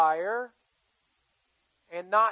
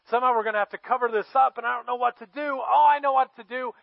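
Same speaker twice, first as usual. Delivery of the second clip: raised, louder panicky scheming; hammed-up alarm turning into a bold plan; acted freak-out; 4 semitones higher, 5 dB louder than usual. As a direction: play a man scrambling for a cover-up. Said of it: "he starts to freak out".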